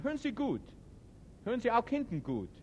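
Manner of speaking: teacher projecting to the room. Real, not acted. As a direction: throw the voice to the back of the hall. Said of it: "Meine Stimme trägt meistens".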